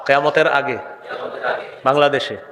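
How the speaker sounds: measured phrases left for a crowd to echo; call-and-response supplication. Real, not acted. Preacher leading the congregation in a dua, slow and measured. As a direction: lead the prayer in drawn-out pieces.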